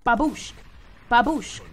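loud triumphant yell; excited shout. Real, not acted. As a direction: shout it as you land the hit. Hitting zombies.

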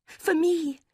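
high, loud eager cry; snatch at hope. A narrator's reading. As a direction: Marianne grabbing the note. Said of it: "she cried".

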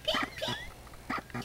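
high squeaky chick peeps; peeping baby chick. Pretend. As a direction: chirp like a tiny chick. Grandma voicing chick sounds.

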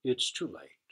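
low, sad moan of defeat; mildly moaning, giving up. A narrator's reading.

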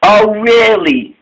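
high, drawn-out doubtful query; unconvinced. A narrator's reading. Emily hearing about the black cat, unconvinced. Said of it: "Emily was not convinced".

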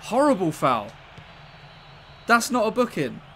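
outraged protest. Real, not acted. Protesting a foul.

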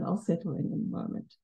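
a nervous speaker whispers an aside while settling in; whispered aside. Real, not acted. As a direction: drop to a private whisper, nearly unvoiced. Muttered aside to herself.

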